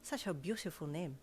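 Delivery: put-on French-accented compliment. A narrator's reading. Valet admires the woman's name, French accent. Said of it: "his accent making your name".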